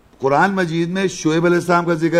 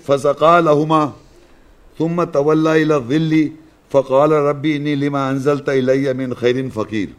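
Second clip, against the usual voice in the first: Quran recitation; 2 semitones lower than usual. Acted. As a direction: recite the verse solemnly, holding the long vowels. Recites Quran verse in Arabic. (عربی میں قرآن کی تلاوت)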